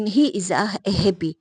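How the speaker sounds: slow, deliberate reading of a wrong sentence; slow wrong example. Shown as a demonstration. Teacher slowly reading a faulty sentence to students. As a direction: lay out each word slowly to show the error. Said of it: "तो आप खुद सोचिए".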